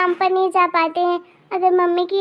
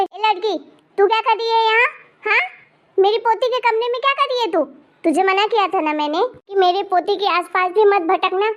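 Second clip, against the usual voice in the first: scolding; 2 semitones higher than usual. Acted. Grandmother scolds the maid's girl.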